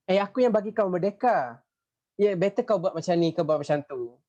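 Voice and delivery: bossy colonial ruler. Acted. Voices the British scolding Sarawak.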